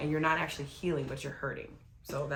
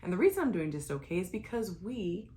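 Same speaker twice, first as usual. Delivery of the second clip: infomercial voice; 4 semitones higher than usual. Pretend. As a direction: sound like a TV infomercial host. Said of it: "why you sound like an infomercial?".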